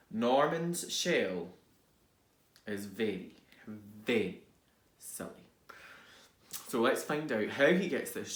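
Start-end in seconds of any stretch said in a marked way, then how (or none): 2.7-4.4 hushed build. Acted. Building to a secret whisper. 5.0-5.4 breathy whispered silly; a secret hushed aside. Acted. Whispered punchline.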